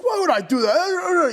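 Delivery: high-pitched fake-innocent protest; mock innocence. Stepdad gaslighting son before mom, mock innocence. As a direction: imitate a gaslighter playing innocent. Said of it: "gaslighting the fuck out of me".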